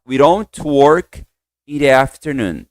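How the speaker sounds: slow, careful English model read; slow model sentence. Shown as a demonstration. Teacher models the sentence slowly for students. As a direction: say each word clearly for the class. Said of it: "Vamos lá".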